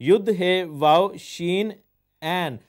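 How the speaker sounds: slow, letter by letter, then the name; spelling out letters. Shown as a demonstration. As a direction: lay out each letter of Yehoshua deliberately. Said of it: "बेटे का नाम जो इब्रानी में".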